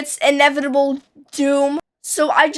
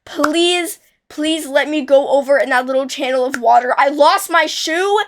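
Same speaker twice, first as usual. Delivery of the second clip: tearful begging. Retold or imitated. Child begging mom to fetch her lost shoe, mild tearful plea. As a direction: beg like a crying little kid, lightly played. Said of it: "and I was crying".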